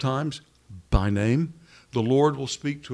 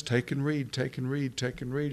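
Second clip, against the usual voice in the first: put-on sing-song child's voice; 5 dB quieter than usual. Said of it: "the little sing-song child's voice says".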